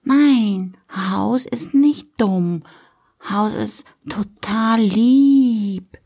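put-on slow, simple little-girl delivery; small child earnestly explaining, drawn out; little girl Lilly. Daughter defends House to Papi, slow childlike earnestness.

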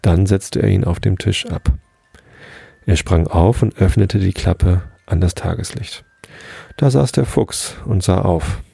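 put-on gentle storyteller voice reading to children; bedtime story reading. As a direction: read it like a bedtime tale for little ones. Reads bedtime story aloud.

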